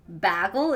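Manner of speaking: "Bagel" said as "BAG-ul"; short A as in "cat" in "Bagel"; short-A pronunciation. Shown as a demonstration. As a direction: rhyme "Bagel" with "haggle". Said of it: "Wait, wh-, which one?".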